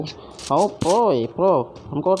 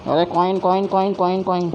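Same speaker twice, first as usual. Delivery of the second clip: higher repeated calls; excited calling; 5 semitones higher than usual. Real, not acted. Gamer pointing out coins to his teammate, eager calls. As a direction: call out eagerly, again and again.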